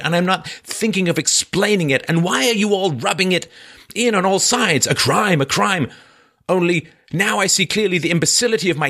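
bitter, defiant murderer, pitched high. Acted. Raskolnikov lashing out at his sister, high and bitter. Reads Raskolnikov's confession aloud.

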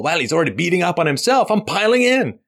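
smug, rising mock bully; lightly voiced gloating bully. Voicing bullies piling on.

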